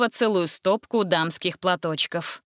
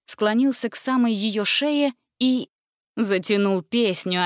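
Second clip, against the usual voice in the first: ordinary delivery, nothing marked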